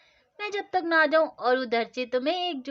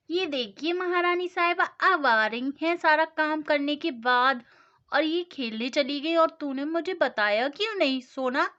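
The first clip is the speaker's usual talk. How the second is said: scolding mother; 3 dB louder than usual. Acted. Mother scolds late daughter.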